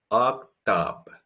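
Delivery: octobre with closed o then open o; octobre, ok-tobr with clear French vowels; octobre, closed o at start. Shown as a demonstration. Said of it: "Can you see the difference?".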